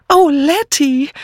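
high, slow flustered gasp of a name; excited cry. A narrator's reading. Miss Banner bursting out to her friend, high and excited. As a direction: blurt it out, all aflutter. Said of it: "rief nur Miss Banner aufgeregt".

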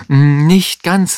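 high, loud gotcha; triumphant. A narrator's reading. Stagehand countering Herr Kuppisch, high and triumphant. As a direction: pitch it up with triumph. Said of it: "sagte der Kulissenschieber triumphierend".

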